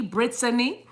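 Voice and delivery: "Brittany" with a crisp T; "Brittany" clear T sound. Shown as a demonstration. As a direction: say "Brittany" as brit-a-nee, not brid-a-nee. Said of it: "It's a T".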